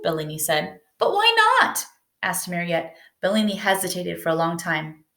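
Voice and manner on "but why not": high, pleading cry; pleading girl. Acted. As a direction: beg him to explain.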